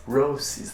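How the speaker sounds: "Roces" with an s sound in the middle; softly corrected "Roces", s in place of ch; correct pronunciation. Shown as a demonstration. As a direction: show "Roces" said with s, not ch. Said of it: "that's how you pronounce it".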